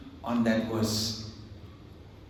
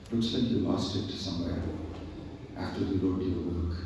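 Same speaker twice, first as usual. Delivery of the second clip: very nicely; 3 semitones lower, 4 dB quieter than usual. Retold or imitated. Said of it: "the Lord told him very nicely".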